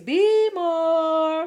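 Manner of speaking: high, stretched-out hype call; hype shout-out. Real, not acted. Teacher reminiscing about Baltimore days, hyped. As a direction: draw it out high with hometown pride. Hyping her city's nickname.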